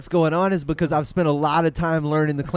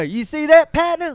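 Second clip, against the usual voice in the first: imitating Jerry; 9 semitones higher than usual.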